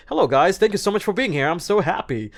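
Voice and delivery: high, loud, over-careful English; overdone effort at accent-free English; trying hard to sound fluent. Shown as a demonstration. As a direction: push the English brightly, trying too hard. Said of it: "if you try so hard, you're gonna sound".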